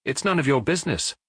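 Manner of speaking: a lightly voiced, curt Otard dismissing the maid; declaring. A narrator's reading.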